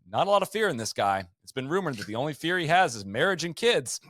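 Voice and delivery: lightly imitated TV golf commentator, swooping pitch; Johnny Miller. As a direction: do a singsong commentator impression. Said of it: "Johnny Miller would say".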